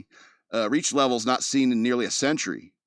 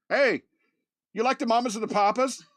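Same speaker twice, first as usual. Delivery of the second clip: high, chirpy mocking voice popping up; mock troll voice; 11 semitones higher than usual. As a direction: squeak it out like a little troll.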